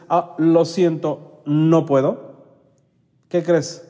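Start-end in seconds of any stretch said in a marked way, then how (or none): 0.1-2.4 calm poise. Shown as a demonstration. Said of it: "muy ecuánime en tus palabras y con ese aplomo".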